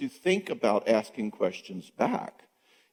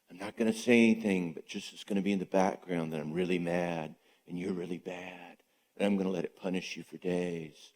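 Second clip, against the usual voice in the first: muttered, brooding and much softer; sulky inner voice; 4 semitones lower, 7 dB quieter than usual. Retold or imitated. Passive aggressive partner brooding in silence, muttered. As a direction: sulk it under the breath, nursing the grudge.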